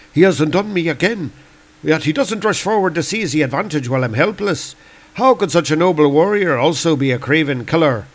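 lightly acted, quick inner monologue; doubting Celtic god. Lear wondering whether to trust Thor, troubled musing. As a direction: puzzle it through, sinking at the end. Voices Lear's thoughts.

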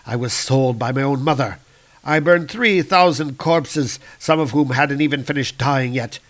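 dark elf lord raging at the wizard's words of peace; furious dark elf. Acted. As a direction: spit each loss back at him. Malekith rages at wizard.

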